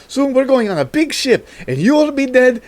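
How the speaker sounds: put-on high, taunting child voice; sing-song it like a smug little kid; bratty kids. The kids taunting John Cusack in a high bratty voice. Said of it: "The kids go".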